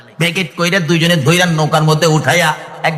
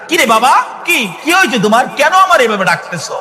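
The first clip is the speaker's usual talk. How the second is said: surprised mother; 5 semitones higher than usual. Acted. Mother wakes to son's call.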